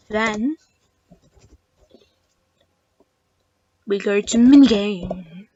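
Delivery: drawn-out eerie ghost-story voice; spooky voice. Acted. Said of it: "Why am I putting on the spooky voice?".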